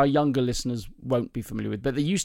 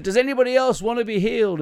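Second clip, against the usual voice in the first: high American preacher's call; American-accented minister calling to the crowd; slight American accent; 9 semitones higher, 4 dB louder than usual. Acted. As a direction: ask it like an American revivalist. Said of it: "that's a slight American accent".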